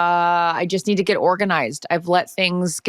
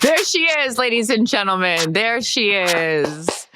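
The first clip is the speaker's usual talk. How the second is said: hyped emcee introduction; announcer voice; 2 semitones higher than usual. Pretend. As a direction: present her like a showman. Announcing her like a star.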